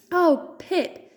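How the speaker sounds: high, loud squeak of relief. Acted. Dot hugging Pip, high squeak. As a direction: squeak out her name. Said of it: "Dot squeaked".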